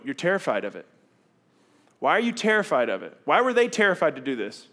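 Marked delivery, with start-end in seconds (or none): none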